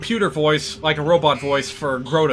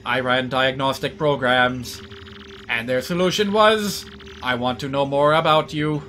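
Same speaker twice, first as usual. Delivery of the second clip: robot voice; 2 semitones lower than usual. Acted. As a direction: speak like a calm, polite machine. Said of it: "we have an actual computer character in this game".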